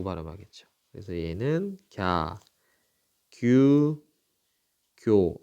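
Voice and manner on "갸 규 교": 갸, 규, 교 each drawn out as one syllable, gya, gyu, gyo; syllable demonstration. Shown as a demonstration. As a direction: model 갸, 규, 교 evenly, pausing between. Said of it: "이렇게 발음합니다".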